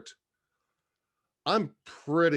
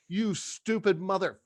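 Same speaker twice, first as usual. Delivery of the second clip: higher-pitched indignant insult; exasperated, cut-off insult; retold angry reaming; 6 semitones higher than usual. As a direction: curse him out in retelling. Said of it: "I started reaming this guy".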